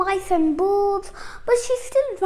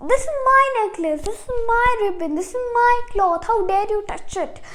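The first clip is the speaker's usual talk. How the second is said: 1 mean stepsister; 4 semitones higher, faster than usual. Acted.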